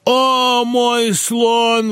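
high, wailing defiant cry. A narrator's reading. Feigning madness, he cries defiantly at the doctor: high wail. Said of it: "вызывающе крикнул Берлага".

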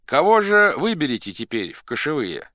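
high, loud question; calling out. A narrator's reading. Elders ask the crowd for a new chief, calling out. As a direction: ask it over a noisy crowd.

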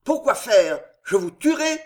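a hint of madness, pressing hard; half-mad anger. Henri confronting the old lord, voice half mad. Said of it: "dit-il d'une voix démente".

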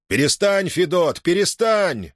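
high, urgent coaxing plea; pleading. Acted. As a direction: talk him down, begging. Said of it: "уговаривал его Тимофей". (уговаривая, настойчиво)

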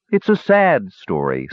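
slow, sighing sad line; mournful relish of a sad tale; a dwarf's slow wistful sigh. Acted. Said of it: "sighed Vigor Arch".

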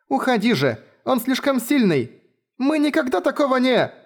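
high frightened pleading, cut off; panicked girl voice, broken off; cut off mid word. A narrator's reading. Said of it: "прервала девочку на полуслове".

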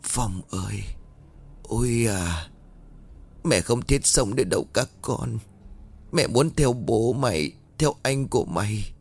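put-on faint, broken-hearted old mother; despairing mother. Grieving mother to her son, faint and hopeless. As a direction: sigh it out as if giving up. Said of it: "grieving mother wants to die".

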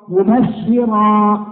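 مبشرا drawn out with a thick ra; heavy ra, slow. Shown as a demonstration. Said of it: "الراء هكذا تنطق".

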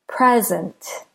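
"Present" with PRE stronger, SENT lighter; "Present" as a noun, PRE-zent; stress on first syllable. Shown as a demonstration. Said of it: "do you hear which syllable is stressed?".

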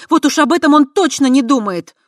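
loud, high scoffing retort; indignant. A narrator's reading. Kava scoffing at Voytek's claim, indignant. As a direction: throw it back with scorn.

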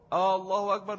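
stretched opening آه in آه الله أكبر; مد الهمزة. Shown as a demonstration. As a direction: lengthen the very first vowel before الله أكبر. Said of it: "الهمزة في الأول". (مدّ الهمزة الأولى في «آه الله أكبر»)

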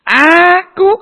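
very high, loud mock outburst; angry ruler. Jealous ruler reacts to the blessing, angry outburst. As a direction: act out an enraged ruler. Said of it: "Marah dia".

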